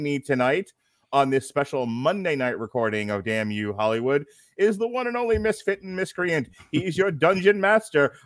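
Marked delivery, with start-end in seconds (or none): 4.6-8.1 hype intro. Acted. Hyping the guest.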